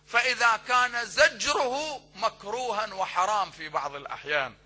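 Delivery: loud, impassioned sermon delivery; preaching at full force. Acted. Preacher urging parents from the pulpit, loud and fervent. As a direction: drive the duty home to the parents.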